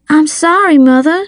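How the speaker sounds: put-on high-pitched young girl, apologizing; girl's apologetic reply. A narrator's reading. Girl apologizing to her demanding mother, high-pitched and apologetic. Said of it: "like someone I knew talking through Jell-O".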